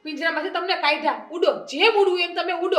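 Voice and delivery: worked-up, high-voiced defiance; angry outburst. Wife angrily sets husband free.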